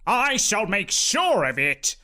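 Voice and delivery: decreed. A narrator's reading. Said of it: "Uncle Horbert decreed".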